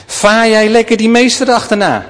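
mocking jeer. Jeering youths mock the prophet.

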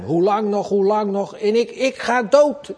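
high anguished pleading; preacher voicing David near death; desperate plea. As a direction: cry out at the end of your rope. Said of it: "hoe zou die psalm".

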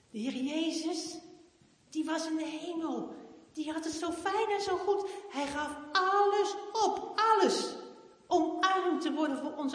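a father explaining what really matters; dad earnestly teaching his daughter. Acted. Papa explains gently.

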